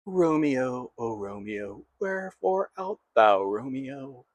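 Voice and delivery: swooning theatrical Romeo call; mock Juliet. Hammed-up Shakespeare balcony recital.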